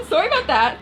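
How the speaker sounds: laughing sorry; laughing apology. Real, not acted. Laughing at loud construction.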